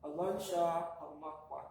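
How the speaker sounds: unhurried, evenly spaced Alon shapa mukwa. Shown as a demonstration. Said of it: "slow down the cadence a bit".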